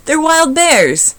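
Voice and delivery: very slow, high, loud yell. A narrator's reading. Sammy shouts at Kevin about the bears, slow and loud. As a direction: stretch every word out loud. Bully yelling.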